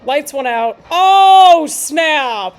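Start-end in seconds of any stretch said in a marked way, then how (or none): 0.9-1.7 loud, sudden, high "Oh" of real surprise; surprised gasp. Real, not acted. The arena lights go out, she gasps out loud in surprise. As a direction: jolt at the shock of the lights going out.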